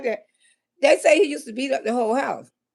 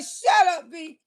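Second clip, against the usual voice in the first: shout; 3 semitones higher, slower than usual. Retold or imitated. Yelling at boyfriend.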